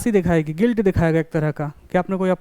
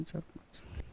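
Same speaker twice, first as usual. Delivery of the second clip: quiet countdown; 24 dB quieter, much slower than usual. Real, not acted. Counting down before next slide.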